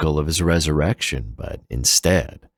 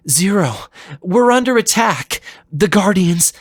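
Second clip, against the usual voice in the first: much higher and louder alarmed warning; crying out; 6 dB louder than usual. Acted. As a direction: shout the warning over the klaxon. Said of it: "and C L cried".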